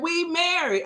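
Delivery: high-pitched mock insistence; playful retold comeback; husband's protest.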